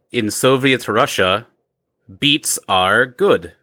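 put-on Russian accent. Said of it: "my horrible Russian accent".

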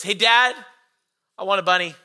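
lightly voiced small child asking; a hint of a little girl's plea; little daughter's voice. Five-year-old calling to dad from back seat, lightly childlike request. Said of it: "this little voice comes from the back".

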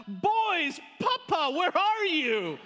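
loud, high call through the house; yelling out. Retold or imitated. Parents call the boys to find papa, high loud yell. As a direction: holler for the kids, drawing out the last words. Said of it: "We just yell out".

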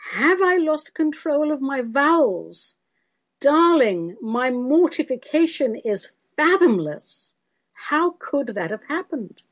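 high, slow theatrical dismay; mock mortification. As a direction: act grandly wounded by the criticism. Mock horror answering the critical letter.

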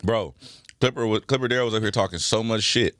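talking while chewing food; words through a mouthful of food; chewing noisily. Real, not acted. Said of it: "I'm sorry I'm eating".

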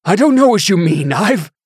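high, loud, panicked spluttering. A narrator's reading. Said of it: "The man spluttered some more".

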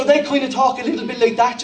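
lightly put-on Dublin talk; a hint of Dublin in the voice; Dublin accent. Shown as a demonstration. Preacher showing how Jerusalem locals talk, Dublin accent. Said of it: "we say they're from Dublin".

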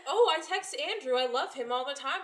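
high, loud gushing voice; mocking friend voice. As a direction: gush it out brightly. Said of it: "she's like".

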